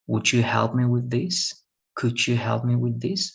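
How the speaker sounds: quick but formal polite asking; formal request. Shown as a demonstration. Teacher demonstrating formal requests to her student, quick formal. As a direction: ask politely, in formal register. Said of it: "Those are formal".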